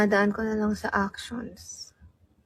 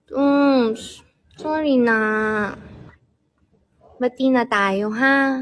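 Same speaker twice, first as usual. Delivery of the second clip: coaxing apology; much slower than usual. Shown as a demonstration. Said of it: "Gawin mo na yung sorry na".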